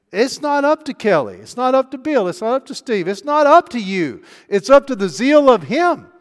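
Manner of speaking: preaching at full force. Acted. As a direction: pound it out like a revival preacher.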